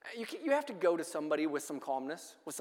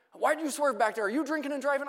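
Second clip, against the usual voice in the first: higher-pitched, accusing officer imitation; belligerent cop; 6 semitones higher than usual. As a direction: play the pushy cop grilling a teen. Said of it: "somewhat belligerent".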